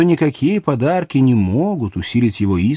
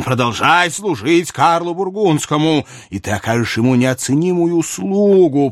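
higher-pitched, animated royal voice; theatrical king building his flattering case; persuasive king; 4 semitones higher than usual. Acted. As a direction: coax the courtier as a wheedling monarch. Narrator voices King Louis.

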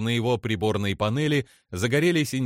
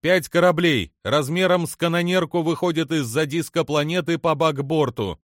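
high, loud urgent report; crying out; 7 semitones higher, 4 dB louder than usual. A narrator's reading. Crew member reports five ships to captain, crying out. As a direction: call the sighting out across the bridge. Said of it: "выкрикнула Далву".

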